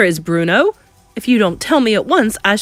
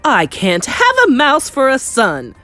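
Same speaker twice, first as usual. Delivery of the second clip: high, loud protest; horrified shriek; 8 semitones higher, 8 dB louder than usual. Acted. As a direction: shriek it in horror. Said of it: "shrieked Mister Jenkins".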